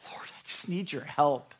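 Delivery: partly whispered plea; desperate whisper. Acted. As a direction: breathe out a plea for help. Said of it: "it means a desperate whisper".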